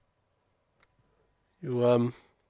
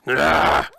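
mock attack; 11 semitones lower, slower than usual. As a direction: go for them like a dog. Dog going for something.

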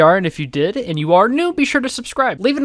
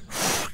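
short imitated puff of air; blowing noise; 10 dB quieter than usual. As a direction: blow a quick airy whoosh. Imitates getting blown on.

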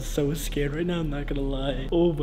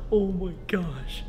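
whispering; 3 semitones higher, much slower than usual. Real, not acted. Hiding, trying not to laugh.

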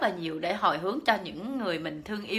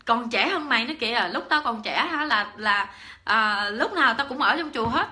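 put-on loud, high, indignant old aunt snapping back; angry scolding; 4 semitones higher, 4 dB louder than usual. Old aunt scolding her niece for preaching at her, loud and indignant. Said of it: "Bả nói".

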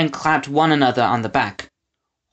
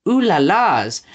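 falsetto; 5 semitones higher, 4 dB louder, slower than usual. Acted. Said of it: "chorus of falsetto".

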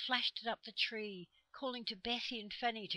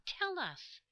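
high, eager stage whisper; 11 semitones higher, 5 dB louder than usual. A narrator's reading. Children whisper back to the trees, eager and high. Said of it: "whispered back the children eagerly".

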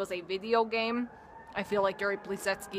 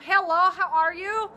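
much higher and louder, a squeaky character voice; high-pitched Georgie voice; 10 semitones higher, 9 dB louder than usual. Shown as a demonstration. Showing how last time's Georgie sounded, high-pitched. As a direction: pitch it way up and push it out. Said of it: "it was very high-pitched".

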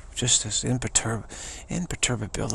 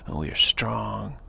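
real confidence; 3 semitones lower, 3 dB quieter than usual. Acted. Texan declaring toughness, quietly confident. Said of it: "real confidence".

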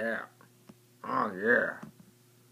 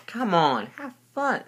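high, loud teasing taunt; teasing brother; 9 semitones higher, 7 dB louder, slower than usual. Retold or imitated. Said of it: "what my brother does to me".

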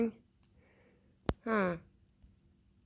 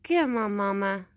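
coaxing pet call; 5 dB louder than usual. Real, not acted. Vlogger calling Mama and hushing the cats, coaxing loud call. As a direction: coax the shy animal closer, calling out. Calling a wild animal to food.

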